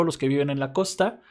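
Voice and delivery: ordinary talk, nothing marked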